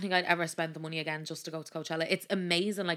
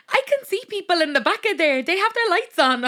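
high, loud, panicked retelling; mock panic at a raised pitch; alarmed; 10 semitones higher, 10 dB louder than usual. Retelling a friend spotting people out the back, alarmed. Acted quote of alarmed companion.

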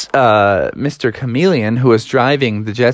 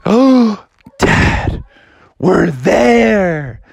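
put-on higher, awed kid exclamation; excited discovery; 7 semitones higher, 3 dB louder, much slower than usual. Froggy tells dad he sees the lake, high excitement. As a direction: burst out at the sight.

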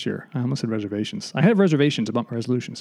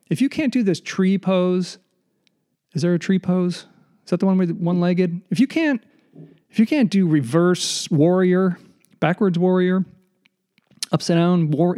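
mock competitive rant; 6 semitones higher than usual. Mock-fierce competitive yoga rant.

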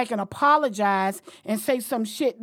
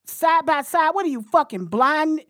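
heated rant; 4 semitones higher than usual. Real, not acted. Ranting at Portnoy's claim.

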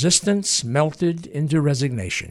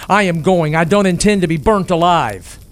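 louder, higher panicked outburst; blurted in panic; 3 semitones higher, 6 dB louder than usual. Acted. Harold panicking in the burning barn, louder blurted outburst. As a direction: blurt it out, scared of the fire. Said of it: "He blurted".

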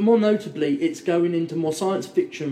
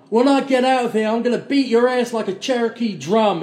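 raised, louder voice for a playful threat; imitated threat, pitched up; mock threat; 4 semitones higher, 3 dB louder than usual. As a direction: deliver a retold tough-guy threat with relish. Retelling a film threat.

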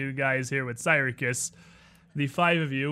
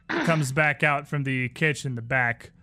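usual speaking voice

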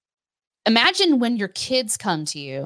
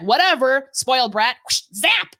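mock dismissive God; 2 semitones higher, slower than usual.

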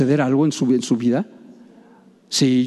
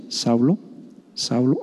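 much lower and softer, a deep hushed call; another guess at the voice; 7 semitones lower, 5 dB quieter than usual. Pretend. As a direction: drop low and quiet, like a voice rumbling from the sky. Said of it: "A lo mejor fue así".

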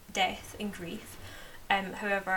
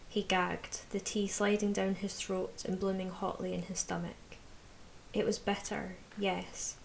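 calm audiobook reading, dialogue lightly voiced; story narration. A narrator's reading. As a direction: read the passage aloud like an audiobook. Reads novel passage aloud.

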